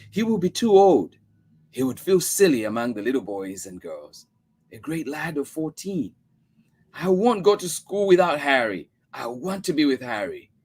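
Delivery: put-on high little girl voice, tearful insistence; girl refusing school without Harry; child insisting. A narrator's reading. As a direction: pitch up for the girl who won't go. Mother and child argue.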